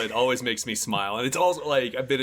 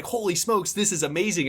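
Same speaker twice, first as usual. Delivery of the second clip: retold burst of amazement; higher-pitched, mildly thrilled exclamation; excited; 4 semitones higher than usual. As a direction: relive the thrill of a great find. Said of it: "And I was so excited".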